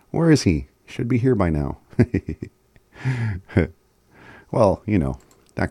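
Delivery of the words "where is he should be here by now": mildly worried question about a missing person; impatient asking. Acted. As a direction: wonder aloud where someone late has got to. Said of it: "You're like".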